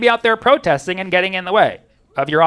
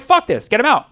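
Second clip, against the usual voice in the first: raised, defiant mock outburst; higher-pitched pushback from fed-up residents; defiant crowd; 6 semitones higher than usual. Minneapolis residents ordering ICE out, defiant.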